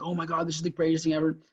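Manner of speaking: quick, lightly hammed-up gushing; mock excited. Seller gushing at analytical buyers, mock excited. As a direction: imitate an over-excited seller in a rush. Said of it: "Don't get emotional or excited".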